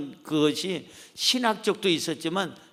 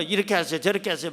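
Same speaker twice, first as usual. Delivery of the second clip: offhand pastor advice; much faster than usual. Retold or imitated. 다른 목사가 부인에게 대충 지시하는 가벼운 말투. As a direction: toss off advice without really listening. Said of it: "막 할 텐데".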